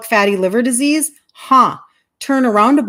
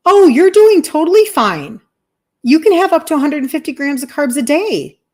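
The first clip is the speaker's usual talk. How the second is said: higher, breezy and dismissive doctor; imitating a carefree doctor, pitched up; mock breezy doctor; 4 semitones higher, 3 dB louder than usual. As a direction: play the doctor waving it off brightly. Mimics dismissive doctor's reassurance.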